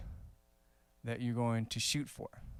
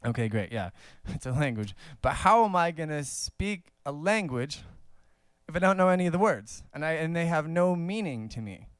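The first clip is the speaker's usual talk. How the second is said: puzzled student; 5 semitones higher than usual. Pretend. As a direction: voice a frustrated learner's doubt, building up. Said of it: "maybe you're wondering".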